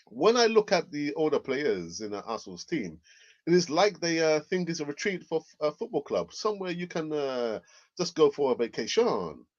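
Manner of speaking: put-on a weak, half-hearted French accent on the quote; terrible French accent. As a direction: imitate Petit badly in French-accented English. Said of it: "It's a terrible, uh, French, uh, accent".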